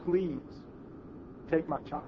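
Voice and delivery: a hint of a mother pleading through tears; tearful plea. Mother begs him in tears, quiet understated plea. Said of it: "in tears".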